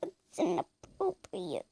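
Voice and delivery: high unvoiced whisper; hushed prim remark; scandalized whisper. Real, not acted. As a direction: whisper it disapprovingly. Shocked whisper.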